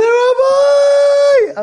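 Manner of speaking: high, loud excited shout; shouted call. Retold or imitated. Teddy shouting to the rabbi on the phone. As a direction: cry out his name. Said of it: "He said".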